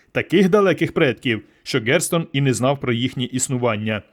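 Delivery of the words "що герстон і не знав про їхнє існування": ordinary delivery, nothing marked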